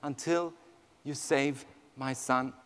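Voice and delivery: low, soft, resolute prayer; hushed vow, slowing at the end; retold vow. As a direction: quietly imitate a mother's vow to God. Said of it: "she made a vow".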